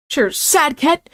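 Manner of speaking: slow, high, lazy character voice; slow drawled reply. Acted. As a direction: stretch it out lazily. Colonel Sanders agrees slowly.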